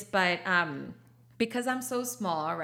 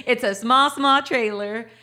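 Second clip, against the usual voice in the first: laughing; 4 semitones higher, 9 dB louder than usual. Real, not acted. Laughing about her tiny trailer.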